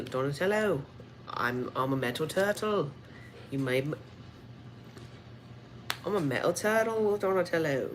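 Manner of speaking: put-on Irish accent for a robot turtle. Metalhead addressing his maker Donatello, put-on Irish accent. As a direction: play the toy with a mock Irish lilt. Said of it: "give me an Irish accent".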